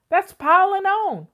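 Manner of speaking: that's piling on, said emphatically; emphatic objection. Real, not acted. Objecting to meal prepping.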